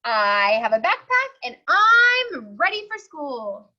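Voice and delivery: proud little pig introducing himself; eager Rufus. Acted. Rufus introducing himself to the principal, eager and proud. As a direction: announce yourself proudly.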